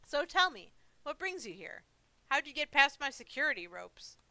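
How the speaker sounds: lightly voiced old man probing his guest; curious old monster. Monster asking visitor about his ropes, curious old monster.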